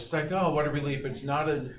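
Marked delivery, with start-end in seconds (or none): 0.3-1.0 relaxed relief. Shown as a demonstration. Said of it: "say in a relaxed tone of voice".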